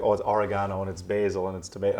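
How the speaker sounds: oregano, basil and tomato said the American way; American pronunciation. Retold or imitated. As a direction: imitate American vowels, "basil" as BAY-zil, "tomato" as to-MAY-to. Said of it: "it sneaks into other words and stuff".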